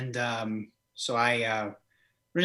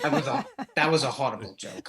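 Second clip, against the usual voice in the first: laughing; faster than usual. Real, not acted. Laughing at his own joke.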